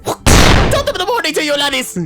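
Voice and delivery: high booming father; rowdy dad. Acted. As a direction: clap the boy on the back cheerfully.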